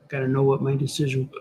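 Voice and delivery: talking through hiccups; words broken by a hiccup. Real, not acted. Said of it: "I'm hiccuping".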